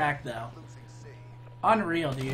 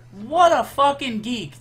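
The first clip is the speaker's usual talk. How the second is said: higher, louder, slow sneer; scornful jeer; 5 semitones higher, 6 dB louder, slower than usual. Real, not acted. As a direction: spit it out with contempt. Insulting opponent after death.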